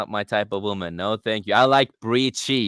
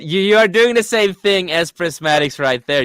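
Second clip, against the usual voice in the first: raised voice, pointing out; loud accusing; 7 semitones higher, 6 dB louder than usual. Real, not acted. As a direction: call him out loudly.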